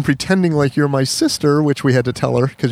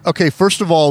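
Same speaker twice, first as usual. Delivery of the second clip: higher, pushy opening; imitated obnoxious complainer; 5 semitones higher than usual. Obnoxious helper confronting the woman after an hour on hold, pushy imitation. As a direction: mimic someone starting a pointed complaint. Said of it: "she's very obnoxious".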